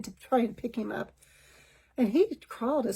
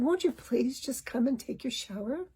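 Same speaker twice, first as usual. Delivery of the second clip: gentle plea; 5 dB quieter than usual. Retold or imitated. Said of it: "to touch him gently".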